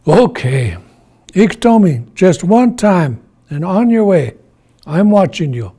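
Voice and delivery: firm, emphatic grandfather; firm warning. Acted. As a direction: give in, but lay down the law.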